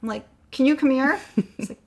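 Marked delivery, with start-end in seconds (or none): 0.5-1.2 louder, higher repeated summons; calling down. Retold or imitated. Wife repeating her request to husband downstairs, calling down. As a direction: imitate calling someone over from upstairs. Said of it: "I call down to Craig".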